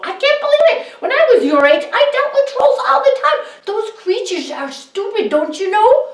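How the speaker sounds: high, loud scoffing dad; mocking scornful father. A narrator's reading. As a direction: scoff at the cowardly son. Father scolds son.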